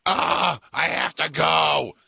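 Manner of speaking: high, drawn-out mock wail; desperate child. Co-host as a kid on a car trip, pleading. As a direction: imitate a kid who badly needs a toilet.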